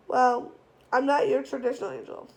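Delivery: put-on lightly done French accent. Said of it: "he said with a French accent".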